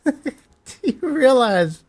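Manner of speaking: high, slow, incredulous; can't believe it; stunned disbelief. Real, not acted. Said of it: "this is insane".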